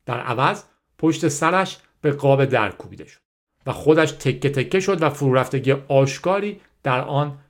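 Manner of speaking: measured audiobook reading, carefully articulated; story narration. A narrator's reading. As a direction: read the story out in phrases with pauses. Reads the story aloud.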